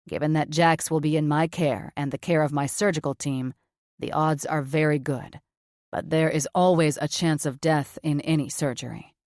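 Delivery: blunt surgeon, low and flat. Acted. Cameron's voice, lower.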